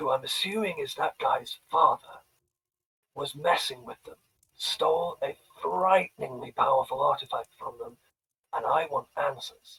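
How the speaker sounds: hushed whisper. Speaking only to her so others won't hear, whispering in her ear. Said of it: "I'm gonna whisper to her".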